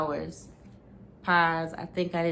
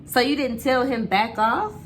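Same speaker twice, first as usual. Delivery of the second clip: screaming; 6 semitones higher, 4 dB louder than usual. A narrator's reading. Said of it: "he screamed at me".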